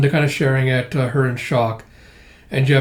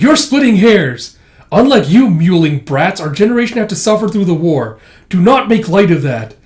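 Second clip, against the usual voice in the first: louder, higher acted scolding; angry rebuke; 3 semitones higher, 5 dB louder than usual. Older generation scolding brats about the war, angry. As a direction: berate them as mewling youngsters.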